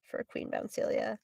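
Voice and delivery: very soft, breath-only jotting; under the breath while writing; whispered note to self. Real, not acted. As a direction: whisper it slowly as you write.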